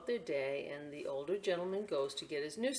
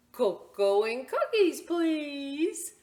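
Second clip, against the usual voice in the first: put-on high, loud, eager child voice; sweet little boy; 9 semitones higher, 9 dB louder, much slower than usual. Little boy ordering cocoa from the cashier, eager and high. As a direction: ask brightly like a happy child.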